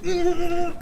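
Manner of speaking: high-pitched held "mm"; strained hum. Retold or imitated. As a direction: hum high like you're hurrying along. Imitates himself hurrying back to barracks.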